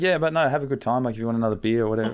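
retold friendliness. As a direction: imitate a host suddenly switching back to friendly. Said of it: "really friendly, friendly".

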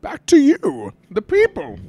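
high whispered villain line; whispered Bane impression. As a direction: breathe it out like a villain speech. Imitating Bane's speech.

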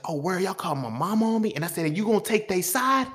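high-pitched indignant challenge to mom; retold anger. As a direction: confront her, pitch climbing in outrage. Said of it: "realized how angry I am".

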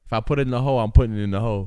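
a touch of forceful insistence; mildly aggressive. Pretend. Joking about a wager with the guys, mildly aggressive. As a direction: say it with slightly aggressive intent. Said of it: "That kinda sounded aggressive".

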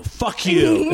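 escalating retold brush-off. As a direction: lift the pitch and throw it at them. Retold Tim Allen, second harder take.

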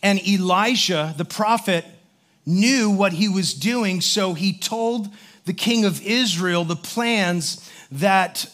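calm, measured preaching voice; a pastor setting up the morning's text; sermon opening. Acted. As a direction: lay out the Bible story for the congregation.

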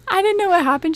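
lightly voiced friend; friend's voice. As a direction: laugh it off as the friend. Voicing friend.

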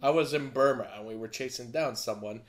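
amateur Cockney storyteller impression; Michael Caine accent. Film fan re-enacting a favorite monologue, imitated Michael Caine accent. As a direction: tell it gravely in an imitated British accent. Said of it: "Wish I could do a better".

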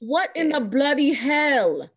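put-on slow, drawn-out English accent; mock English accent. Podcast host teasing about an English actor, in a mock English accent.

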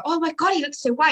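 high, delighted gasp of a customer; amazed customer. Retold or imitated. Dog owner admiring the white coat, mock amazed. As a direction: gush like a thrilled owner.

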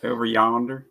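light Southern lilt; easygoing Southern phrase; Southern accent. Shown as a demonstration. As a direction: put on a mild Southern accent. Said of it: "say it in a Southern accent".

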